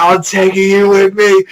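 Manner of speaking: high, loud threat in character; acted battle cry. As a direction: hurl the threat at an enemy. Same threat repeated, heightened.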